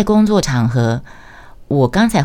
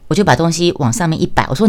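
normal talking voice

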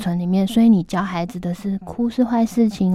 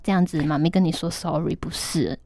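gentle apology to daughter. Retold or imitated. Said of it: "我就说".

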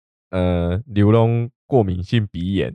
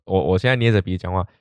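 talking with nose pinched shut; pinching nose; faster than usual. Shown as a demonstration. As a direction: pinch your nose and speak.

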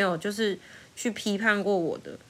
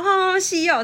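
laughing; 10 semitones higher, 3 dB louder than usual. Retold or imitated. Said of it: "笑笑的说".

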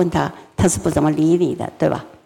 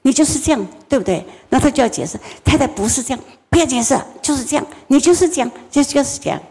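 wife's nagging, higher and quicker; wife's accusation; 5 semitones higher, faster than usual. Retold or imitated. Wife repeating to her husband, higher and insistent. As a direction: insist like a wife who won't hear excuses. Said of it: "他太太每次说".

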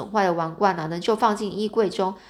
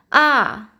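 short, higher, louder "ah" of shock; startled cry; 4 semitones higher, 6 dB louder than usual. A narrator's reading. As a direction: gasp out a startled "ah!". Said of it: "我暗叫了一声".

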